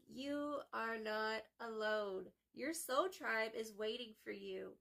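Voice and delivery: slow, gentle comfort; reassuring. Real, not acted. Consoling message to the viewer.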